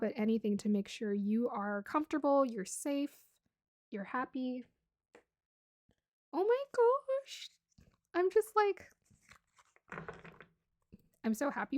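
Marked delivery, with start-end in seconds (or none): 6.3-8.9 high, slow, moved gasp; almost tearing up with happiness; emotional joy. Real, not acted. Tarot reader moved to tears for the viewer, emotional. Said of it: "I wanna cry".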